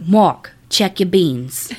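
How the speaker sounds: slow, drawn-out New Orleans mama voice, lightly done; a hint of a Southern mama calling her son at night; thick New Orleans accent. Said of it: "he heard his mama go".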